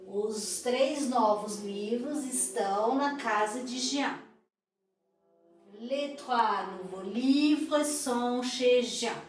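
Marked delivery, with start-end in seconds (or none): 5.8-9.2 slow, careful French for repeating; slow model sentence. Shown as a demonstration. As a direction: say each word slowly and clearly. (devagar, para repetir)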